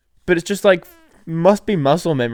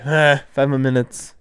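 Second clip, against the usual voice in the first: sleepy groan. Retold or imitated. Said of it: "You know, the classic".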